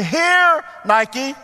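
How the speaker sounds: high, loud call across the backyard; calling the dog. Acted. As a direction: summon a dog from the back door. Calls his dog from door.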